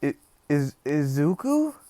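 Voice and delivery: stammered, climbing to a high squeak; mock tearing up. Aunt recognising a boy thought dead, mock tearful stammer. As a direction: act overcome, voice rising with each try. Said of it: "she starts tearing up, like".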